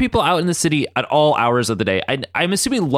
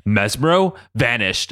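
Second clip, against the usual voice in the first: slow, lightly mock-solemn pronouncement; Xavier; 3 semitones lower, slower than usual. Xavier announcing it to no one, mock-solemn. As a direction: draw it out with a touch of mock drama. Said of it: "the line was him going".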